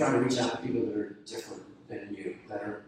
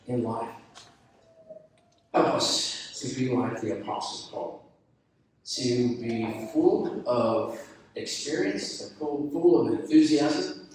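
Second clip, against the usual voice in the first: earnest pastoral prayer voice, swelling louder on full of enthusiasm; closing prayer; 4 dB louder than usual. Acted. Pastor praying over graduates on their big day, earnest. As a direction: pray it over the graduates, sincere and rising.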